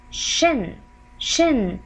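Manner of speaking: "shin" as a separate, drawn-out syllable; "shin", isolated and falling; demonstrated shin sound. Shown as a demonstration. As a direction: say "shin" slowly with a clear sh. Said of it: "it will give you the sound".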